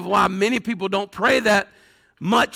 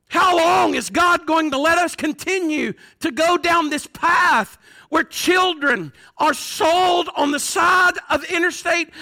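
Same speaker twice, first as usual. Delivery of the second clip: raised, insistent cry to God; impassioned plea; 4 semitones higher than usual. Acted. Congregant watching the news cries to God, impassioned. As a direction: demand an answer from God, pitch lifted.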